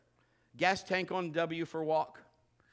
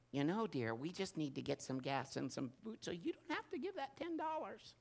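sweet wife voice; 2 semitones higher, 7 dB quieter than usual. Retold or imitated. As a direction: play the sweetly suggesting wife, hamming it a little. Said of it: "for theatrical reasons".

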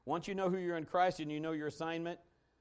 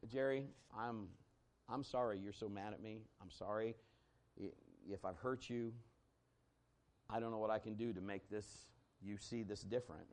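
gentle apology; 4 semitones lower, 6 dB quieter than usual. Retold or imitated. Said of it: "And I said".

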